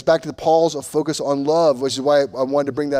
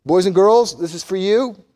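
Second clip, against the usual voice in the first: calling out; 6 semitones higher, 8 dB louder than usual. Real, not acted. Preacher calling to the boys and girls, loud.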